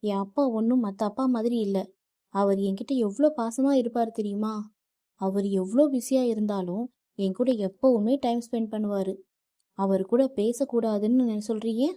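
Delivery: upset wife snapping at her husband; angry wife. Acted. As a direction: defend her father with rising anger. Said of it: "Nithya கோபத்துடன் வருணிடம் கூறினாள்".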